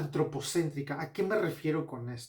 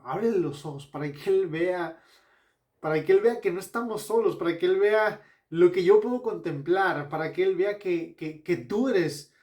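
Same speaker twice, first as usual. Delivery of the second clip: fervent prayer; 3 semitones higher, 6 dB louder than usual. Retold or imitated. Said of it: "Elías le pide a Dios".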